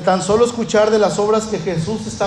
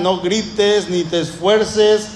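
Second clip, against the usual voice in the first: scolding crowd. Retold or imitated. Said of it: "lo callan".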